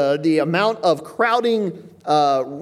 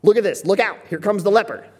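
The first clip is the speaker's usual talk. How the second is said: raised, urgent "look out"; alarmed warning; 3 semitones higher, 3 dB louder than usual. Shown as a demonstration. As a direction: warn the crowd the leper comes. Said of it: "kinda like this".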